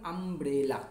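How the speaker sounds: আমব্রেলা stretched into আম, ব্রে, লা; three clearly separated syllables in আমব্রেলা; broken into three parts. Shown as a demonstration. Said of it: "তিনটে অংশে ভাঙলাম".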